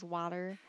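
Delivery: "water" with the T softened to a d; slurred T. Shown as a demonstration. Vlogger showing how Michiganders say it, slurred T. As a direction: say "water" slurred together, no crisp T. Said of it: "We don't say the T".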